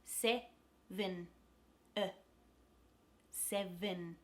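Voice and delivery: SEVEN broken into syllables, second E a loose uh; teacher's careful SEVEN with a neutral second vowel; schwa demonstration. Shown as a demonstration. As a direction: say SEVEN slowly in pieces, relaxed schwa ending. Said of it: "the second E becomes a schwa".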